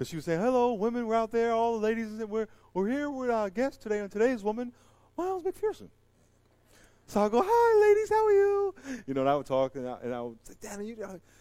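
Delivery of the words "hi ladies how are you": put-on girly voice, much higher, louder, slower. Recalling being a guest on a women's show, greet the ladies in a high girly voice. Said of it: "I would get my girly voice".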